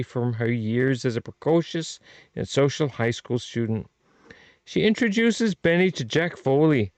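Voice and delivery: hammy mock-Irish blurb read; leprechaun-style Irish accent; bad Irish accent. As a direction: read the blurb in a badly faked Irish brogue. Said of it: "my very bad Irish slash, ... leprechaun accent".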